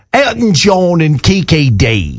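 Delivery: put-on English accent. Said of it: "in an English accent".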